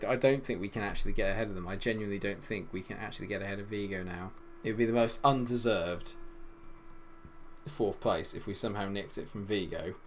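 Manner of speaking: ordinary delivery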